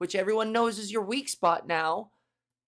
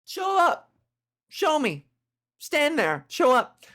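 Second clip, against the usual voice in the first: mock challenge; 6 semitones higher, 4 dB louder, slower than usual. Challenging the ghost loudly.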